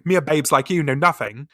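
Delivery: put-on broad Essex accent on babes. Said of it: "I go straight to Essex".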